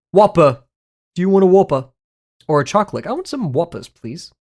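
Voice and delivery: a clumsy mock British accent, hammed up; bad British accent. Streamer ordering sweets in a clumsy British accent. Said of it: "Worst British accent I've heard".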